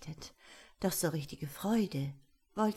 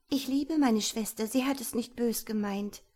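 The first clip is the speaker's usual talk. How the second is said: slightly raised, earnest voice; earnest pleading; 3 semitones higher than usual. Acted. Girl defends her sister to the angry gnome, earnest plea. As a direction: plead gently on someone's behalf.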